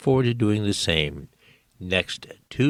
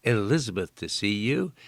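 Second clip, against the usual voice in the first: raised voice for a hard-of-hearing mother-in-law; near shout; 6 semitones higher than usual. Retold or imitated. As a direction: call out to a deaf old mother. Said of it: "Truman said in a near shout".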